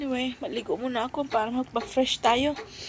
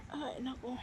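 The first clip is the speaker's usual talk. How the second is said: after crying; 7 dB quieter than usual. Real, not acted. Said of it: "Hindi na naman titigil kakaiyak to".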